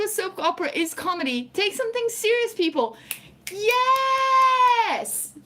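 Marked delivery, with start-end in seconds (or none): 3.5-5.3 high, loud, drawn-out yes; a loud, high-pitched, drawn-out yes; emphatic yes. Real, not acted. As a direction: cheer agreement. Emphatic agreement with chat.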